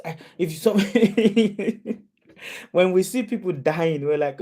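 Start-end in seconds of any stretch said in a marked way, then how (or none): 0.8-2.0 high chuckle breaking in; real laugh that cuts off the sentence. Real, not acted. Preacher amused at people avoiding death talk, high chuckle.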